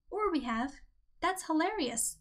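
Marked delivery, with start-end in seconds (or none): 1.2-2.2 pitched up, bright exclamation; exclaimed. Shown as a demonstration. Writing coach reading Henry's line, exclaimed. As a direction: read it like it ends in an exclamation point. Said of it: "exclamation point".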